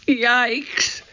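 high-pitched startled yelp. A narrator's reading. Annie lighting up a row of knights, startled. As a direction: yelp it in sudden alarm.

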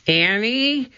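high questioning call. A narrator's reading. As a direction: call her name into the dark. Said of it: "he called".

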